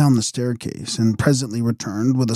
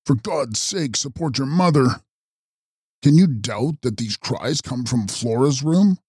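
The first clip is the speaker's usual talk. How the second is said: urgent cry; 3 semitones higher than usual. A narrator's reading. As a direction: plead urgently without shouting. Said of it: "he cried".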